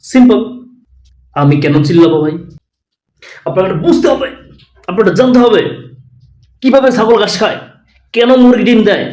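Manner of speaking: lightly voiced pushy reporter; mock street hawker reporter. Parody reporter hawking news like a street seller, mild. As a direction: pitch it like a street canvasser. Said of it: "এটা তো canvasser ভাই".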